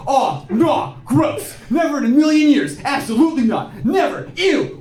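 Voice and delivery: high, hammed-up revulsion; mock disgust. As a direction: squeamish guy protesting too much, hammed up. Mocks dudes disgusted at gay sex.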